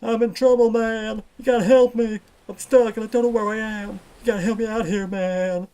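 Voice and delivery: stuck and scared, pleading; panicked pleading. Acted. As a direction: beg for help in a panic.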